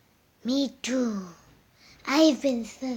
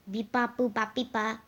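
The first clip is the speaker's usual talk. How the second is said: robot beeps. Pretend. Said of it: "Stop speaking like that".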